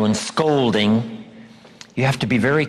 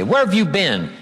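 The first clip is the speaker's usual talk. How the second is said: sarcastic; 6 semitones higher than usual. Shown as a demonstration. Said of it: "be very careful of things like that".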